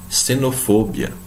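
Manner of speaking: "xenofobia" slow, starting with S; initial X as S. Shown as a demonstration. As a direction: say "xenofobia" as "senofobia". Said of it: "um som de S". ("xenofobia" com X soando S)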